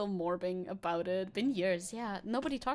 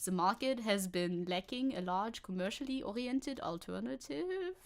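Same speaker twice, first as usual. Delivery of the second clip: put-on German accent, reading a quote; German-accented expert voice; 3 dB quieter than usual. Streamer reading the Mannheim expert's quote, German accent. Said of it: "we have more German guy".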